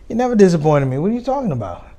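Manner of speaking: a father protesting to his daughter; upset dad. Retold or imitated. Dad reacts to daughter's worry.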